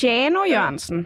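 "Chano" with a drawn-out S-like opening sound; S-sound demo. Shown as a demonstration. Host trying the caller's name with an S-sound, pronunciation demo. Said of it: "ja, med S-lyd".

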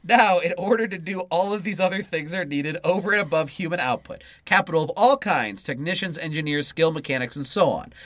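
measured read-aloud voice; book reading. Acted. Co-host reading political book to partner, read-aloud style. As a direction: read the political text out in full phrases.

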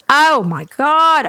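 panicked Karen. Retold or imitated.

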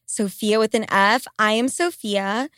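congested, blocked-nose voice; talking through a stuffy nose. Real, not acted. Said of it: "I know I sound congested as fuck".

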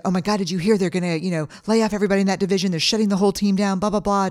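fast, rushed panicky rumor; anxious gossip. Retold or imitated. Employee rushing panicked rumor at calm leader, fast anxious. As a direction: gabble the worry out fast.

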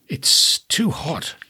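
hushed and slow, barely voiced; slow whispered complaint. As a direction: breathe "it's too hot" as a slow whisper. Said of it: "she said".

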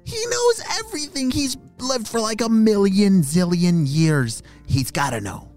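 high, gasping little frog idea; a young frog struck by a bright idea; excited frog voice. Acted. Frog thinks, gasps with idea.

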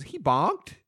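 put-on small child's questioning report; Fritz. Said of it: "Fritz goes".

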